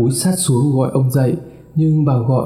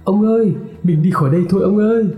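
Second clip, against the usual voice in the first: desperate call; 7 semitones higher, much faster than usual. Acted. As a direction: beg him to run away with her. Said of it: "gọi".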